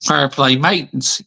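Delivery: spoken word by word while typing; saying a comment aloud while typing it. Real, not acted. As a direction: dictate to yourself as you type. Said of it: "I'm gonna actually post a comment".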